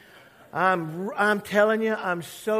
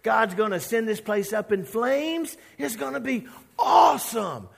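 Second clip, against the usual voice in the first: gleeful Jonah; 4 semitones higher, 4 dB louder than usual. Retold or imitated. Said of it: "He's like".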